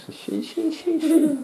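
high playful singsong chant. Pretend. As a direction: sing it up high to a child. Игра в поиск грибов. (высоким напевом)

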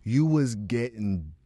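loud, high, fast rant; excited rant. Real, not acted. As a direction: get fired up. Worked up rant about voices.

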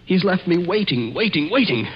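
man tells Betty of his torment, voice rising in dread; anguished repetition. Acted. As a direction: lean harder on each waiting as the nerves fray. Tormented man recounts the wait.

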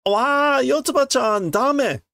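put-on high, loud child's scolding; high scolding little girl. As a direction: tell her off in a girl's voice. Voicing Enna scolding Yotsuba.

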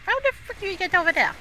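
loud, high exasperated yell; frustrated shout. Real, not acted. Gamer yelling at the screen, frustrated shout. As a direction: yell at the game in disbelief.

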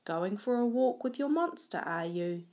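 lightly voiced teasing shop lady; a hint of a nosy baker's wife; bread shop woman. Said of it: "the bread shop woman says".

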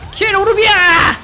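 fast, loud, high battle cry; excited shout. Real, not acted. Yelling a game kill call.

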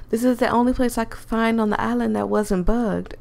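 lightly voiced country accent; a hint of country twang. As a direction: put on a mild country accent. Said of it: "I'm losing the country accent".

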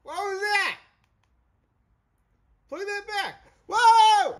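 sudden high yelp of surprise; startled shout. Real, not acted. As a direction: gasp out loud in shock. Shocked reaction to a scene.

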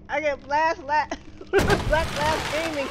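"Black Blast Gaming" spelled out slowly and loudly, each word placed with care; careful name reading. Shown as a demonstration. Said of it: "I can say it".

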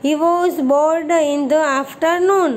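deliberate word-by-word reading; slow model reading. Shown as a demonstration. Teacher reading the English story line to pupils, very slow. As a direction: read each English word very slowly and clearly. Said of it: "reads English line slowly".

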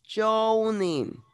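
Yawning drawn out as "JOH-nin", falling; modelled pronunciation. Shown as a demonstration. Teacher repeats the forgotten word so it sticks, modelling Yawning as JOH-nin. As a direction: repeat Yawning for the learner, long first syllable, JOH-nin. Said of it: "¿cómo se pronuncia?".

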